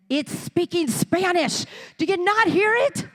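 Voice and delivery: put-on a boy sure he hears something; insistent child.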